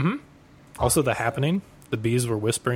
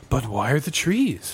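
drawn-out, lightly voiced bewilderment; slow, puzzled bad-actor question; Mark Wahlberg confused; slower than usual. Mocking an actor's bad movie acting, baffled delivery. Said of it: "He's confused all the time".

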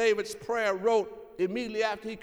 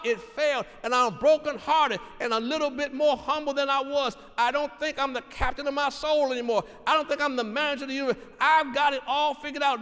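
preaching a sinner's prayer with rising force; fervent preaching; 4 dB louder than usual. Acted. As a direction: build the confession to a loud "I messed up". Voiced brokenhearted prayer.

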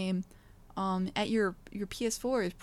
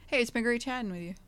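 stiff scripted outro; 3 semitones higher, faster than usual. Acted. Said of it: "That was natural as hell".

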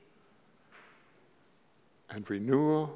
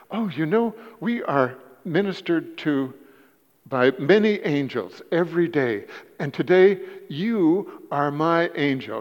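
put-on thick European accent; 4 semitones higher, 4 dB louder than usual. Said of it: "he said to her with a thick accent".

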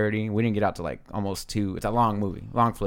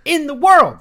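big mock announcement; 8 semitones higher, 10 dB louder than usual. Real, not acted. Host teasing friend Miles for noisy whispering, big mock announcement. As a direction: stretch it out and belt it like a title.

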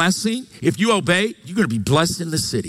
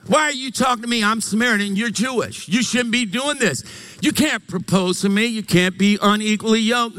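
mock-flustered protest, pitched up; acted freaking out; 4 semitones higher than usual. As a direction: play a woman lightly freaking out at a stranger. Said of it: "she starts freaking out".

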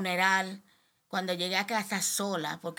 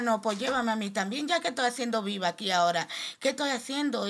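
crying out; 4 semitones higher than usual. Retold or imitated. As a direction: beg to be taken too, in tears. (súplica desesperada llorando)

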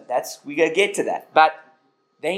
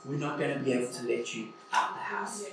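playful fatherly praise; 5 semitones higher than usual. Retold or imitated. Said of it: "I'm like".

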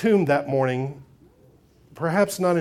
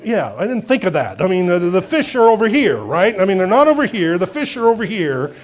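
grumbling sarcasm; 5 dB louder than usual. Retold or imitated. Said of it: "they're grumbling".

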